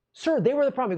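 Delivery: high, loud exasperated protest. Retold or imitated. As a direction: plead your case to the cop. Protesting to cop.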